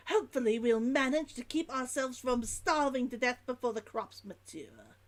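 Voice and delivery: put-on dropped H's, Old London merchant's log; Old London accent. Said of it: "I'm making it more Old London".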